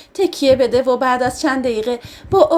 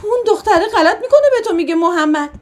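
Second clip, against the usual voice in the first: sobbing outburst; 5 semitones higher than usual. Acted. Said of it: "حق زدم گفتم".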